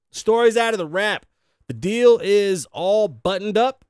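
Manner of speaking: upbeat host reading a news story. Acted. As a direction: deliver it like a showbiz news anchor. Reads entertainment news story.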